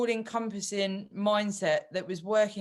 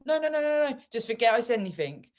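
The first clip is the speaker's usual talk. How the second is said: much higher, quick no no no waving it away; exasperated brush-off; 5 semitones higher, 3 dB louder, faster than usual. Retold or imitated. Wife brushing off her husband's worried caring, exasperated and quick. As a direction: shut down the fuss fast. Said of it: "And I'm like".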